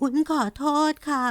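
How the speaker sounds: whisper-close, trying not to cry; near tears. A narrator's reading. Girl apologises to her uncle, fighting tears.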